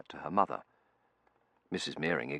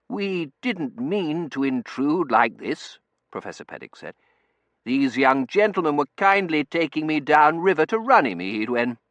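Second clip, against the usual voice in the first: put-on old professor voice; 10 semitones higher, 9 dB louder than usual. Professor character voice.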